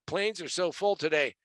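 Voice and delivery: mock whiner's complaint; lightly put-on whine; whining. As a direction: imitate a whiny passenger. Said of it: "any of you whiners who say".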